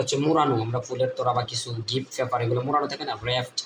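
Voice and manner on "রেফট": রেফট with no W sound; silent W. Shown as a demonstration. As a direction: say রেফট starting on the R. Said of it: "ডাব্লিউ এর সাথে আর থাকলে".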